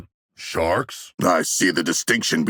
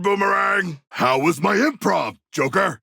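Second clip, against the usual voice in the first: calling out; 10 semitones higher than usual. Acted. Calling teammate mid-fight.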